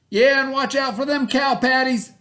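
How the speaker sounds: high, loud barking order; bossy stepbrother. A narrator's reading. Stepbrother ordering Bubba about, loud and high. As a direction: boss him around from horseback. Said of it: "added Milton".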